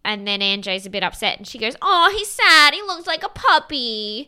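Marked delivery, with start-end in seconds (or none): 1.8-4.3 high, loud cooing mockery; mock pity. Imitating Olivia teasing upset Anjay, exaggerated mock pity. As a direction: coo it high, dragging out the puppy.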